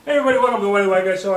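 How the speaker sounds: loud, fast, hyped-up host welcome; show host intro. Acted.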